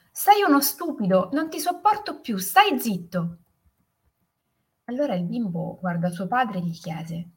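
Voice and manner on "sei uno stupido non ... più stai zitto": high, indignant shout thrown back; angry echo. A narrator's reading. Mountain voice answers the boy, angry echoed shout. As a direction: echo the furious outburst. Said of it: "La risposta che gli arrivò fu".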